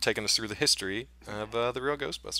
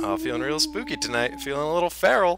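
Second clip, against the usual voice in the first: hammed-up spooky host, pitched higher; 6 semitones higher, 4 dB louder than usual. Host answering his co-host on Halloween, spooky voice. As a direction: play a spooky host losing hold of the voice. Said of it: "put my spooky voice back on".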